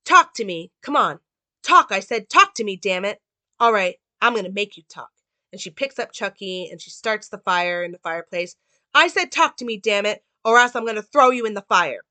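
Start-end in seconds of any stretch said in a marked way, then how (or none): 0.0-5.1 loud, forceful demand at a doll; mock-furious Karen ordering the doll to talk; retold angry shouting. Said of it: "she goes". 8.9-12.0 loud, higher shouted threat; hammed-up furious threat; angry threat. Karen threatening the doll.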